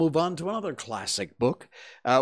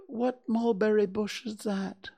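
cheerful Pooh; 9 semitones higher than usual. A narrator's reading. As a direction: chirp it out like a friendly bear. Pooh asks.

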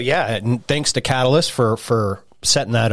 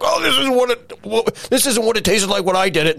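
put-on kid voice; 9 semitones higher than usual. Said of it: "and he's like".

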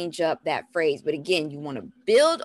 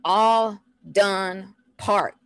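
very slow, one word at a time; deliberate toddler-directed cue; slow teaching phrase; 2 semitones higher, 3 dB louder, much slower than usual. Shown as a demonstration. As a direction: leave space after each word. Demonstrating the short park phrase.

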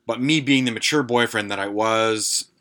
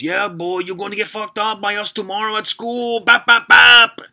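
put-on even worse Latino gangster accent; 12 semitones higher, 8 dB louder than usual. Second prank caller threatening Jay in an even worse Latino gangster accent. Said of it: "a even worse accent".

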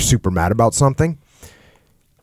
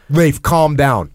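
dismissive calm-down; 2 semitones higher, much slower than usual. Shown as a demonstration. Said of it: "getting mad is not gonna help".

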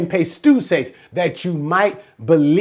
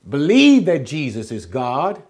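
slowed down; 2 semitones lower than usual. Shown as a demonstration. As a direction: take it word by word. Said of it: "slowing it".

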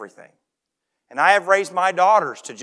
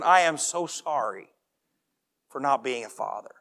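imagined deathbed apology; 4 semitones lower, 4 dB quieter than usual. Pretend. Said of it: "explain to my children".

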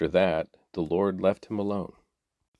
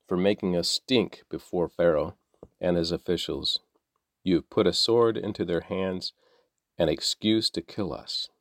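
measured, even reading of a Bible passage; scripture reading. A narrator's reading. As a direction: read the text to listeners steadily. Scripture reading before plain sign-off.

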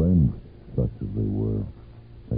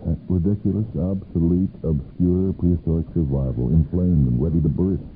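anxious thought; 5 semitones higher than usual. Acted. Panicked inner thought, fearing appendix.

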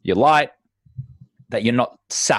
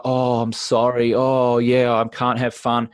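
slower sorry refusal; mopey apologetic; slower than usual. Shown as a demonstration. Guest shown the wrong way, slow and mopey. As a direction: sound deprived, not fun. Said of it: "not in a, like".

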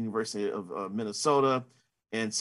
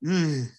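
short mock groan of reluctance; retold groan; 3 semitones higher, 3 dB louder than usual. Reporter replaying his reaction to hearing Beijing, mock groan. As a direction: give a brief retold "ugh". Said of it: "And I go".

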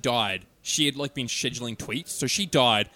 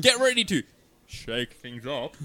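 slow, hammed-up dub voice, drawn out at the end; poorly dubbed voiceover; slower than usual. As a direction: overdo it like a bad dub. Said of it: "very poorly dubbed over the top".

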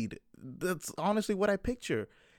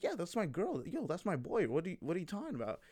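softly voiced mock pride; proud; 3 semitones higher, 6 dB quieter than usual. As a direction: play someone sticking out their chest. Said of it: "they say it with pride, you know, they stick out their chest".

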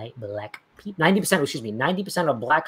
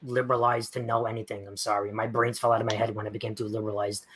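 mock dumb apology; 5 semitones lower than usual. Answering a viewer's math jab with mock helpless sarcasm. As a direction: play dumb, sarcastic and sheepish. Mock liberal self-parody.

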